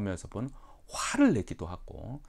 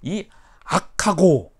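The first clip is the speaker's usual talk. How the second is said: loud, higher, very slow; stern rebuke; 8 semitones higher, 11 dB louder, much slower than usual. Retold or imitated. Jesus rebuking scribes, loud slow scolding. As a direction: drag out the rebuke. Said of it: "무엇이라고 반응을 보이냐면".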